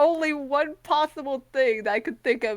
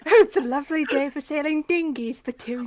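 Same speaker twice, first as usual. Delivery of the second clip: put-on British accent. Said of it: "give me something to say that's very British".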